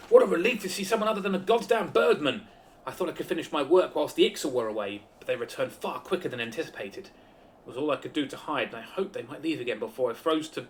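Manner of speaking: reading NPC lines in a voice; character voice. Acted. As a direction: voice the knight's lines. Voices game NPC dialogue.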